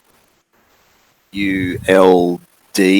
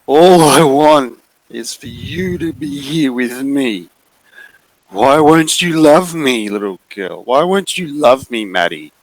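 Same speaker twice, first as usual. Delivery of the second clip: wheedling bear creature, begging to be loved; pleading bear; 6 semitones higher than usual. Acted. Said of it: "He's like".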